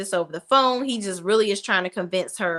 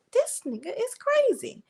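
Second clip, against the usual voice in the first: shocked outburst; 13 semitones higher than usual. Retold or imitated. Vlogger's own shocked reaction.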